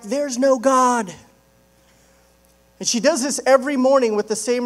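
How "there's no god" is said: mild mock yell, slow and higher; yelling back. Atheist answering the lady next door, mock yelling back. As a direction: call it back slowly, drawing out NO. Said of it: "the atheist yells back".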